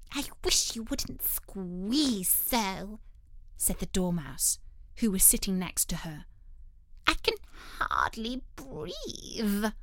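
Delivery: slow, grumbling little dormouse; sleepy dormouse. Acted. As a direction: complain drowsily. Dormouse complains.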